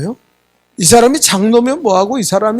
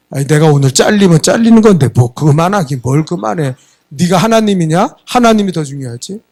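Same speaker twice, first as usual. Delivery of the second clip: defiant retort; 4 dB louder than usual. Retold or imitated. Elder defiantly retorts to producer.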